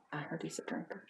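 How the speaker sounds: very quiet, near-whispered rumour; soft, confidential tattle; hushed gossip. Acted. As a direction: drop the rumour under your breath. Gossip said under the breath.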